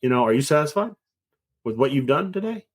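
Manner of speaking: lightly voiced old man; a hint of a folksy old father. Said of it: "in that old man voice".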